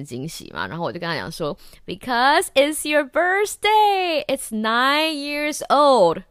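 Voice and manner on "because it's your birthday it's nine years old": high, very slow hammed-up sob; much higher, louder, crying melodramatically; mock tearful. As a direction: choke it out like a fake weepy speech. Mock-emotional birthday message.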